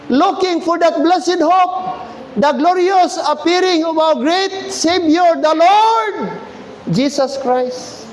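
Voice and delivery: slow, deliberate Bible reading; solemn scripture reading. Acted. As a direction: read the verse slowly with weight. Reading Titus verse aloud. (mabagal at taimtim na pagbasa ng talata)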